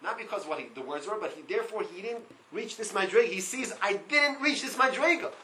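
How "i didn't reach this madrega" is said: raised, higher-pitched lament; acted self-reproach. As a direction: cry it out as the brother's regret. Acting the brother's anguished self-reproach.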